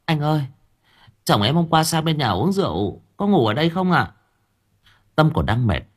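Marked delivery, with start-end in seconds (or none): 0.0-4.1 put-on higher calling voice of a young wife; lightly voiced calling wife. A narrator's reading. Lưu's wife calling out for her husband, a bit higher. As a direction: call out politely over the gate, higher. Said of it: "nói to".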